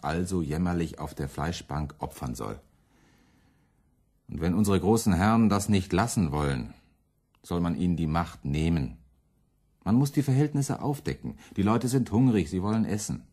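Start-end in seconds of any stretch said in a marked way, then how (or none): 4.3-13.2 impassioned outcry. Acted. Müntzer rallies against the lords.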